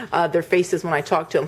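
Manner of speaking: ordinary talk, nothing marked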